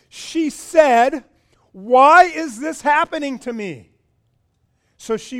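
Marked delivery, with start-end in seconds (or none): 1.7-3.9 frightened. Retold or imitated. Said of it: "it frightened Rebecca".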